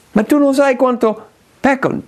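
doubting sinner. Acted. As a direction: object as someone sure they sinned too much. Imagined objection from a sinner. (voce alta del peccatore che dubita)

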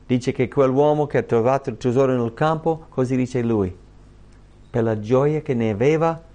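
ordinary delivery

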